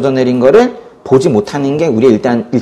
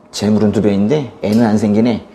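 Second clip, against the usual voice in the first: mock taunt; 5 semitones lower, 4 dB quieter than usual. Peninnah's taunt, voiced by the preacher.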